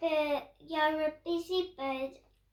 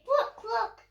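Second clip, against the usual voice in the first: higher, louder hen clucks; clucking hen; 6 semitones higher, 5 dB louder than usual. Acted. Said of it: "Then say".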